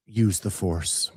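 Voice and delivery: low, slow movie-villain voice, lightly done; a hint of a deep, slow villain; Darth Vader. Imitating a downloaded satnav voice reading maps, lightly voiced villain. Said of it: "we had Darth Vader".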